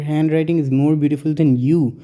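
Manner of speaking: slow reading with weight on you at the end; slow wrong example. Shown as a demonstration. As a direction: read the faulty sentence out slowly to show the mistake. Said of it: "लेकिन अगर हम ये कहें".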